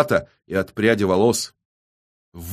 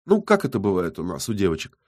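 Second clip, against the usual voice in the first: higher, mock-sweet gloating; snide, playful taunt; 7 semitones higher, 3 dB louder than usual. A narrator's reading. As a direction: report it with malicious glee, pitch lifted. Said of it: "ехидно улыбнулась".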